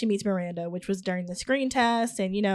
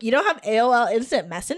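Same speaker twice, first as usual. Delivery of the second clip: put-on light Valley Girl lilt; Valley Girl accent; faster than usual. Miranda asks Jeanette about instant messaging, Valley Girl accent. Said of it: "like, the Valley Girl accent".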